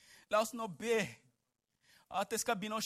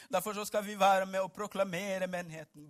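ordinary talk, nothing marked

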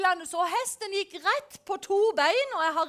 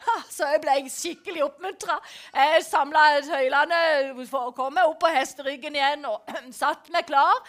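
normal talking voice

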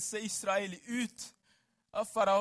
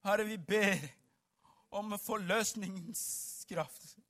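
ordinary talk

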